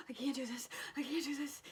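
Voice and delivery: mild imitated panic; retold freak-out. Mom imitating her son before the test, mild freak-out. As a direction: lightly mimic a kid starting to panic. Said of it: "starting to freak out".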